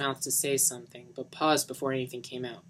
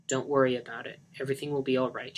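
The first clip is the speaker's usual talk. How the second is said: comforting; faster than usual. Acted. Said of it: "she comforted".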